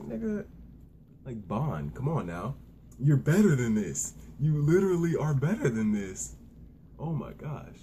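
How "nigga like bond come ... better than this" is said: loud exasperated plea to a character; hammed-up disappointed yell at the screen; mock scolding. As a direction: scold him like a let-down friend. Scolding character during anime reaction.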